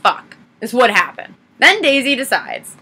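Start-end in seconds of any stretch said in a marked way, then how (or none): 0.0-0.4 higher-pitched retold exasperation; mock anger. Daisy slamming the oven door, mock angry. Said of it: "just, like, in anger".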